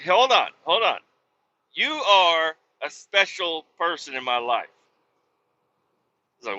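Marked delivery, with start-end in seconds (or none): 0.0-4.7 gushing praise. Retold or imitated. A trucker gushing to the cook about his sandwich, hammed-up gushing.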